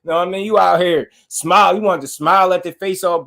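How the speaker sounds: high, worked-up ranting; excited. Real, not acted. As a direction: get fired up and insistent. Excited rant, high pitch.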